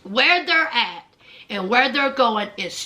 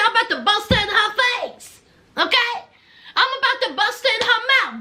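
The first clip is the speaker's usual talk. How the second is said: higher-pitched imitation of a fighting threat; mock threat; 6 semitones higher, faster than usual. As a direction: retell the sister's threat with lively indignation. Sister threatening a fight, acted.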